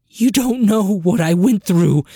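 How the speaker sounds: high, loud anguished cry. Acted. Sister cries out to Trin in high anguish. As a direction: let the hurt burst out. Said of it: "Sess cried".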